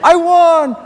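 high, loud victory yell; retold whoop of triumph, held high; triumphant shouting. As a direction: crow it like you just won the fight. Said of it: "And I'm going".

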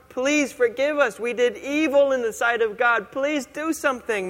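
a hint of panicked pleading. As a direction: beg your brother to save her. Aaron begging Moses for mercy.

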